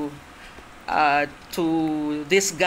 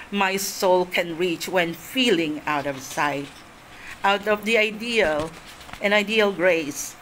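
poem recitation. Shown as a demonstration. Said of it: "I used to recite it".

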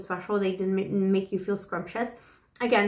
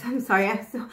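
laughing apology. Real, not acted. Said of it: "gasping for breath".

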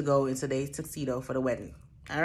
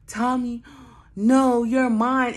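mock wail; 6 semitones higher, 7 dB louder, slower than usual. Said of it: "busts out crying".

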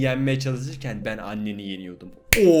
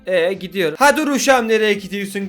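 put-on higher Black Sea Laz accent; 4 semitones higher than usual. Fish giving directions in a Laz accent. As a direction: give directions in a Laz lilt. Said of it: "Çok Laz şivesi yapamıyorum ya".

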